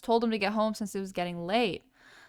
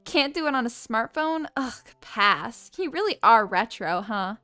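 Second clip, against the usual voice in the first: lightly voiced snotty girl; a hint of a bratty sneer; mean girl voice. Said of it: "I'm gonna give her a bitch voice".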